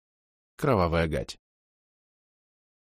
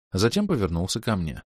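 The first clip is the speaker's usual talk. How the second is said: ordinary delivery, nothing marked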